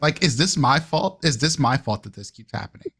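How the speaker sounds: Sebastian blaming himself, voice sinking to near murmurs; Sebastian in anguish. Acted. Sebastian blames himself for the explosion, bitter self-reproach.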